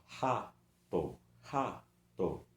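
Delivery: "rato" slowly as ra, to; two separate syllables. Shown as a demonstration. Teacher showing a two-syllable word, "rato" split in two. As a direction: pause between the halves of "rato". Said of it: "duas sílabas".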